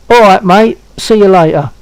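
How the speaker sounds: punchy Cockney sign-off for copying; Cockney demo. Shown as a demonstration. Man repeating the line for his friend to try, Cockney accent. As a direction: demonstrate a matey Cockney goodbye. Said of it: "talk to me in Cockney".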